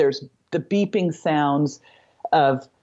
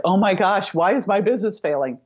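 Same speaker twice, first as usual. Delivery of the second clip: lightly acted fretting, pitched up; mock panic; 5 semitones higher than usual. Owner asking why business is failing, mock panic. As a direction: imitate someone fretting in alarm.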